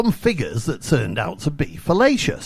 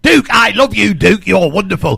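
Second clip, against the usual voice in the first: gushing; 4 semitones higher, 7 dB louder than usual. Real, not acted. Gushing praise to a listener.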